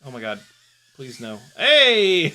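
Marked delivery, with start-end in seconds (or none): 1.6-2.4 loud, high yelp into a laugh; surprised laugh. Real, not acted. Pilot reacting to a lucky landing, high laughing yelp. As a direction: yelp then burst out laughing. Near-miss makes him laugh.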